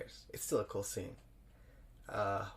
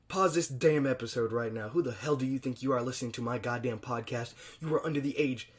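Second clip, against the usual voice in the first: louder, mock-outraged rant at kids; mock scolding; 4 dB louder than usual. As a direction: scold the underage listener, hamming it up. Mock-angry scolding of underage listeners.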